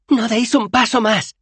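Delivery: high, slow warning cry; shouted threat. A narrator's reading. Bethan halts the advancing disciples, shouting high and slow. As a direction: yell it as a menacing warning. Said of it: "gritó".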